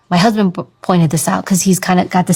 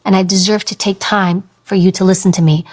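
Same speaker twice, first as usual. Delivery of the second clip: measured, unhurried true voice; slow, grounded voice. Shown as a demonstration. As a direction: take your time, owning each phrase. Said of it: "I slow down my speech, I bring down my tone and pitch".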